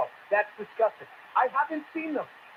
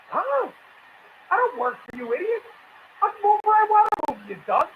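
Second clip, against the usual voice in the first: indignant retort; 10 semitones higher, 4 dB louder than usual. Retold or imitated. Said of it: "The Hispanic guy's like".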